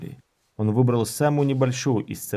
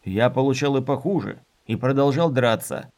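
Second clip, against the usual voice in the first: grumbling; 3 semitones higher than usual. Acted. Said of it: "буркнул Дорин".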